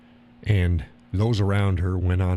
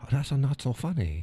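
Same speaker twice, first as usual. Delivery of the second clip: put-on Asian accent; 4 semitones higher, 3 dB quieter than usual. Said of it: "it's the only accent I can do".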